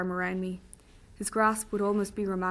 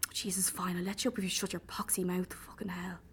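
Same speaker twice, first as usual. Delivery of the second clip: softer, unvoiced grumbled surrender; exasperated whisper; 4 dB quieter than usual. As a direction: give in under your breath. Exasperated captor gives in.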